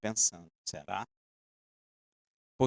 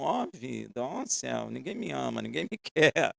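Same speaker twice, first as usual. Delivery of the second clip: soft, hammed-up self-pity; a touch of mock woe, laughing at the end; mock lament; 3 semitones lower, 6 dB quieter than usual. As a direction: whine it like a melodrama. Mocks Joseph's self-pity.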